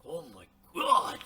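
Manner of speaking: loud, shocked cry of Oh my God; sudden stunned exclamation; surprised outburst. Retold or imitated. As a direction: blurt it out like you can't help it. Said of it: "like he vomited it out with surprise".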